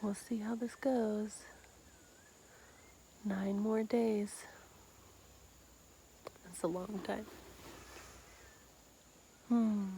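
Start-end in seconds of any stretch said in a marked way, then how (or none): 0.0-4.4 slow, hushed whisper. Real, not acted. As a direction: whisper it slowly. Quiet reflection on retreat.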